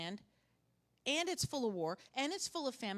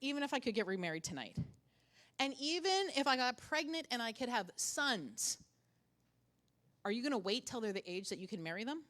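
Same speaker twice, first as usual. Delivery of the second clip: sarcastic. Retold or imitated. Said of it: "It's so sarcastic".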